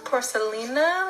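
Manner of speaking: Porcelina in a light, soft Spanish accent. Shown as a demonstration. Vlogger naming a lip liner to viewers, light Spanish accent. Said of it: "Let me get my Spanish little accent going".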